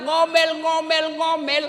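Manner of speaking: drawn-out, loud insistence on normal; emphatic shout. Real, not acted. Preacher tells husbands nagging is normal, slow and loud. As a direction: hammer the word home slowly.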